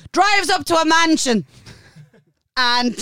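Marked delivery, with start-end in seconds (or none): 0.1-1.5 dramatic reveal. Real, not acted. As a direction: lean into the mansion reveal.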